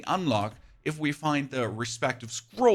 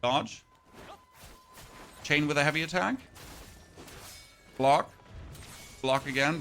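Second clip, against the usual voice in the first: short move callouts with rising ends; combat play-by-play. Real, not acted. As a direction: call each move as you play it, pausing between. Calls out combat moves while playing.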